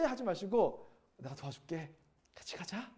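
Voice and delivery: soft, quiet, kindly offering to walk along; gentle offer of help. Retold or imitated. To a struggling church member, softly reassuring. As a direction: say it softly like a friend helping. Pastor models kind words to friend.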